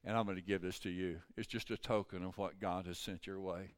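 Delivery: soft, low, tender retelling; gentle reassurance. Retold or imitated. Preacher tells waitress the Lord will take care, softly reassuring.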